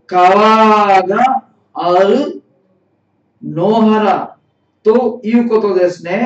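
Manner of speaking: deliberate teacher's read-aloud, stretched opening words. Shown as a demonstration. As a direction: read it out piece by piece for learners. Teacher reads dialogue line for learners.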